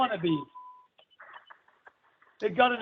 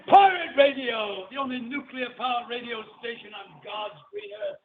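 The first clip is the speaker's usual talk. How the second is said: announcer read. Shown as a demonstration. Host demos the station intro, announcer style. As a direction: announce the station name like a bumper. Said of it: "This is what I wanna do".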